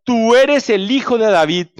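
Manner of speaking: restrained cry of faith. Acted. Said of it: "Clamó".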